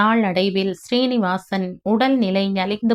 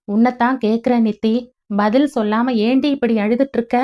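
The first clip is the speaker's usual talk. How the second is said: fast, slightly raised scolding; 3 semitones higher, faster than usual. Acted. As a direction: press her for an answer, voice rising. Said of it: "அவளின் குரலை சற்றே உயர்த்தி கேட்கவும்". (குரலை உயர்த்தி வேகமாகக் கேட்பது)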